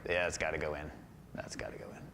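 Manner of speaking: low, soft, fading into a whisper; hushed fixated self-talk; obsessive mutter. Retold or imitated. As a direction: mutter to yourself, then whisper. Obsessive painter muttering to himself.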